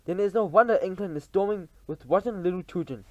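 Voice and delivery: loud, high contempt; scornful witch. Acted. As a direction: sneer at England. Grand High Witch speech.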